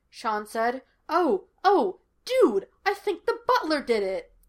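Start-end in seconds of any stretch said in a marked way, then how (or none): 1.1-4.3 high, loud burst of sudden realization; eager, raised-pitch outburst; excited hunch. Acted. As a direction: blurt it out like a thrilled amateur sleuth. Sudden excited theory in story dialogue.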